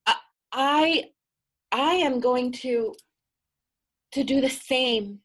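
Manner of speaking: nervously steel yourself to act; determined naive girl. Acted. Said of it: "And the naive girl took off her necklace and said".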